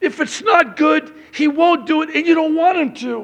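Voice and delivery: loud, very high, spit-flying preaching yell. Preaching to an audience before announcing free baptisms; yelling. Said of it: "I'm yelling and spitting again".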